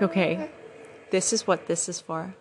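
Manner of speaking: calm, grateful resolve; relaxed. Retold or imitated. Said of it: "took a breath and relaxed".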